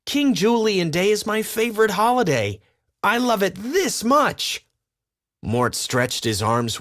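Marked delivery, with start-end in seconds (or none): 0.1-4.6 high, gushing voice; tiny lemur bursting with love; eager little lemur. Acted. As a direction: gush about it like a small fan. Mort voiced, adoring.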